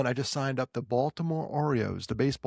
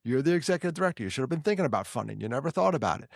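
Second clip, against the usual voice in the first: self-scolding; 4 semitones higher, faster than usual. Retold or imitated. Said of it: "I literally was just crushing myself".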